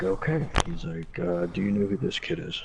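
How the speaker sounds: high mocking voice of the officer. Mimicking interviewing officer's voice.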